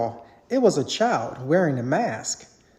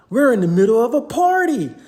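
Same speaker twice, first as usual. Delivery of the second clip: higher and louder alarmed exclaim; 6 semitones higher, 6 dB louder than usual. A narrator's reading. Mike realizing they're at a party, exclaiming. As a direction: blurt it in a panic. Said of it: "Mike exclaimed".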